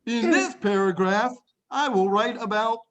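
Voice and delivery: "In this paragraph" read slowly, rise on "this"; teacher modelling "In this paragraph"; slow model sentence. Shown as a demonstration. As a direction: spell out the template slowly. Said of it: "I showed you how to write".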